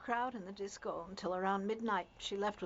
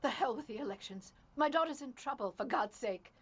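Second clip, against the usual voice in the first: angry protest; 2 semitones higher than usual. Acted. Mother argues back over missing daughter.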